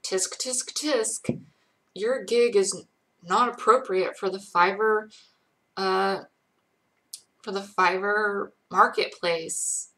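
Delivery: a hint of a prim official voice scolding; tut-tut, then read the ruling stiffly like a scolding clerk; lightly mocking the site's prissy ban notice. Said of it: "They're like".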